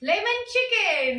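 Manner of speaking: slow, insistent lemon chicken; drawn out. Real, not acted. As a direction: stretch out lemon chicken word by word. Stressing the dish name.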